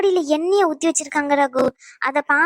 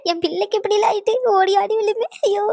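tearful lament; 4 semitones higher than usual. Acted. Elder laments the injury.

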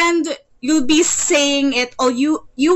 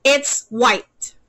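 "It's white." said level, no rise or fall; flat tune. Shown as a demonstration. Teacher showing a flat statement tune to a student. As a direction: keep "It's white." straight and even. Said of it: "stagnant or straight".

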